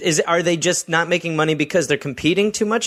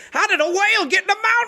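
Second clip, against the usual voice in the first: put-on old-timey bumpkin. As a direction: gawk like a baffled yokel. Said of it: "they would be like".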